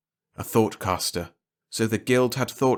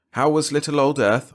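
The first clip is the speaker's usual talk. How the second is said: awkward; 6 semitones higher, 4 dB louder than usual. A narrator's reading. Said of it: "I said awkwardly".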